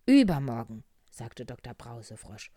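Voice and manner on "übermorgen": loud, proclaimed single word; doctor's announcement. Acted. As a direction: announce it loudly to the patient. Doctor frog announces discharge. (laut verkündet vom Arzt)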